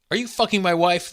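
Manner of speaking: angry big man. Acted. Big man confronts at door.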